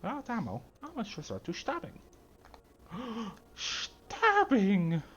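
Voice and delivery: hammy German villain voice, high and shouted; Richthofen-style mad German; German accent. Acted. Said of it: "I'm just doing Richthofen".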